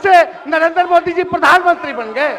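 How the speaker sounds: shouting over interruption. Real, not acted.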